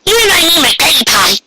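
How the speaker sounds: high fast pony voice, leaning on my Granny Pie; emphasis on the last words. Acted. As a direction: press hard on my Granny Pie. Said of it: "placing extra emphasis on the last few words".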